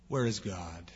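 low, hushed, anguished question; anguished groan. Retold or imitated. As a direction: groan it out in despair, almost to yourself. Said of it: "heard someone behind him groan".

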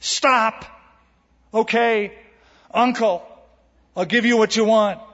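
high, loud mock surrender; gods giving in. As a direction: cry uncle like a worn-down god. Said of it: "till finally they go".

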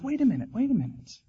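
soft, high, soothing bear voice; calm him down gently; a soothing talking bear; comforting tone. Acted. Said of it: "in this kind of a comforting tone".

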